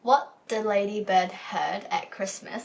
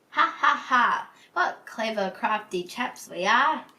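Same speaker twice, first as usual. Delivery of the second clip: thieves' chuckle; 3 semitones higher, 5 dB louder than usual. Acted. Two thieves chuckling over their plan, mock villain laugh. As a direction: gloat like a pantomime crook. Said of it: "The two thieves chuckled".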